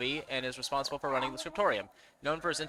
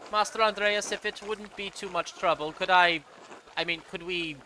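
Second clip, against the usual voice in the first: higher-pitched, halting plea; raised voice, faltering politely; hesitant landlady asking a favour; 6 semitones higher, 4 dB louder than usual. Acted. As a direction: play a woman nervously working up to a request.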